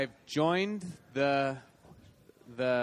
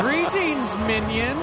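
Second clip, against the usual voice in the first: loud, grand supervillain greeting; 7 semitones higher, 6 dB louder, slower than usual. Acted. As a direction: greet them like an evil mastermind. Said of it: "I was doing the Doc Ock thing".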